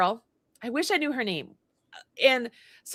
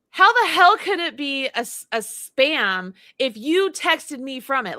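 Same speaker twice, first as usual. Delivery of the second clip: retold anger. Customer snapping at the nail technician, hammed-up outrage. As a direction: bite back at the rude technician, half-acted. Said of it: "I have loaded the level".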